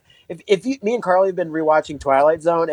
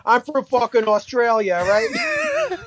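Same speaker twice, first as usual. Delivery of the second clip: laughing mock claim; 6 semitones higher, slower than usual.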